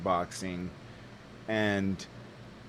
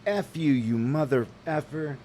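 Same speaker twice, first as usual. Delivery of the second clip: loud, higher furious rant; retold angry yelling; 7 semitones higher, 4 dB louder than usual. Yelling at the driver who wouldn't take the right of way, loud and furious. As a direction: let him have it, full volume. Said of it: "I said".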